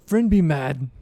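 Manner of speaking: slow, lightly voiced simple-minded Verbeeg; simple monster warning. Verbeeg repeats the warning to Rogar, slow simple voice. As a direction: draw out each simple word.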